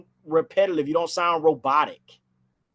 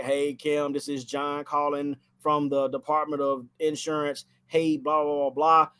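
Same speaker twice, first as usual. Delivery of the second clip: robotic script reading; 2 semitones lower than usual. Shown as a demonstration. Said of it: "you don't wanna sound like a robot".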